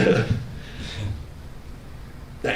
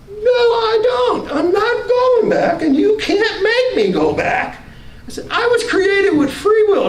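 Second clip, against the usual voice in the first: much higher, slow, insistent refusal; defiant high refusal; 13 semitones higher than usual. Retold or imitated. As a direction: dig in and refuse, voice pitched high.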